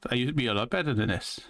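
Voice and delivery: fast put-on twang; quick twangy accent impression; imitated twangy accent. Shown as a demonstration. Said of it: "I'm gonna switch back now".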